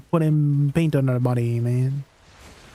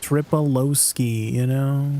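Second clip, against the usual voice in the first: Russian accent; 2 semitones lower than usual. Shown as a demonstration. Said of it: "I have to speak in a Russian accent".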